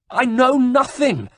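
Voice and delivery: high, slow, pitiful wail; piteous cry. Acted. Tortured monk begs his torturer, high and pitiful. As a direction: cry it out like a broken man. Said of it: "the monk cried piteously".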